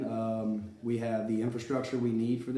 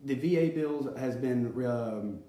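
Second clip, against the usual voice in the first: speaking with a dry mouth; words sticking in a dry mouth. Real, not acted. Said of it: "I'm sorry, my mouth is dry".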